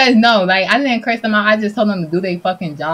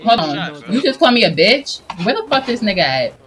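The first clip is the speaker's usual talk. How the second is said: 1 furious disbelief; 3 semitones higher than usual. Pretend. Called a bitch, furious.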